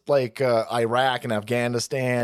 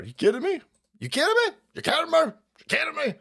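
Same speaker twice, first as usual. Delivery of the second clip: incredulous disbelief; 12 semitones higher than usual. Real, not acted. Streamer repeating in disbelief.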